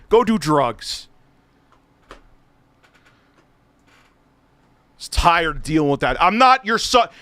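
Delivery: swearing tirade. Real, not acted. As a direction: keep yelling, furious. Continued rant.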